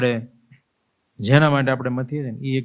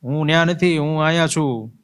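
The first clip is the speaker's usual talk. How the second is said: higher, urgent calling out to everyone; desperate calling; 4 semitones higher than usual. Acted. Dead man begs the mourners to hear him, raised and urgent. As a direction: beg them to listen, voice raised. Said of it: "બધાને કહી રહ્યો છે".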